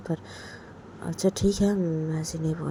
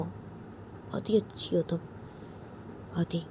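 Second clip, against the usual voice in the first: tender whisper; 5 dB quieter, much slower than usual. Acted. Tender compliments to girlfriend.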